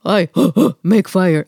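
slow caveman grunt with a gasp; slow, dim caveman voice. Pretend. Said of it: "Is this your impression of a caveman?".

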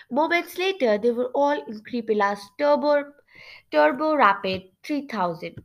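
expressive storybook reading; storyteller moving the scene along; story narration. A narrator's reading. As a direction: narrate the tale clearly, phrase by phrase. Reads story narration aloud.

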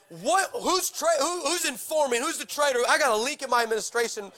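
high, frustrated king demanding answers; mock-angry king ranting at his generals. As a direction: play the furious king hunting a traitor. King rages at his officers.

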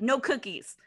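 clipped flat brush-off, lightly imitated; curt dismissal. Counter guy coolly turning down the cookie request. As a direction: shrug the customer away. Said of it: "he says it like that".

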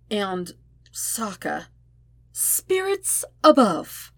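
slow, drawn-out spirits above; dismayed exclamation. A narrator's reading. Zuko remembering he kissed both friends, dismayed. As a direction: groan it out in dismay. Zuko's horrified inner exclamation.

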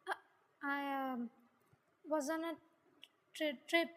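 halting, with stumbles and gaps; hesitant lie. Acted. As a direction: stall while making up an excuse.

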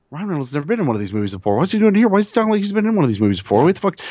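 fast, high, baffled thoughts; excited inner voice. Retold or imitated. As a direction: rattle it off, baffled. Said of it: "running through my mind".

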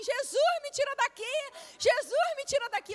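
high, loud terrified cry to Jesus; screaming in terror on the roller coaster; panicked scream. Retold or imitated. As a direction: yell it like you're trapped in the dark ride. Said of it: "Eu gritava, gritava, gritava e dizia assim".

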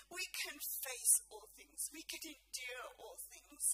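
drawn-out preaching with weighty pauses; emphatic preaching. Real, not acted. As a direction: let each declaration land before the next.

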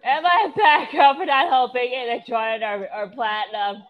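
high, loud whine tapering off; still sobbing. Pretend. Sobbing girl asks her friend, tearful whine. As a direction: whimper it like a tearful child. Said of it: "She's, like, still sobbing".

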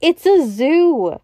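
high, slow cry of realisation; excited cry. A narrator's reading. Doctor Bull realising where they are, crying out. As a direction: exclaim it high, stretching the words. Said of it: "he cried".

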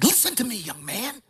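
high-pitched imitation of a church elder; strong-voiced old elder. Old church elder instructing a young man, strong preacherly voice. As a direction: mimic the old elder commanding attention. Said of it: "He had a s-, strong voice".

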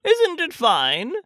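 high, drawn-out call from above; mild shout. A narrator's reading. Pooh calls down from the balloon, high mild shout. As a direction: call down slowly without much force. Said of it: "shouted Winnie the Pooh down to you".

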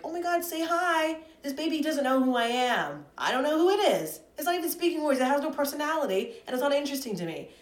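high, loud gushing voice; mock baby-talk gusher. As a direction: coo at the baby in a mocking high voice. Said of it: "putting a baby on FaceTime, like".

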